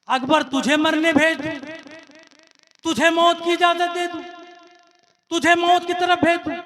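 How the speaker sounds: aunt Zainab refusing her nephew, with fierce anger. Acted. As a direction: flare up in protective anger. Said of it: "Zainab Alia को जलाल आया".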